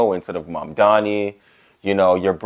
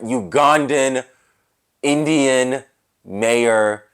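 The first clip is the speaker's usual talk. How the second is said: mock reverent; 3 semitones higher, much slower than usual. Mocking dad's obsession.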